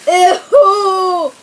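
disgusted ew. Real, not acted. Tasting soap bean.

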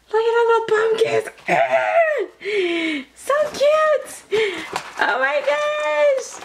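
very high squealing delight; getting excited. Real, not acted. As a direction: squeal it out, thrilled by something cute. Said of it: "okay, I'm getting excited".

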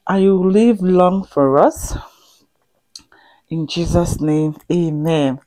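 hushed prayer whisper. Real, not acted. Wife praying for her husband, whispered close. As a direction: whisper the blessing's end.

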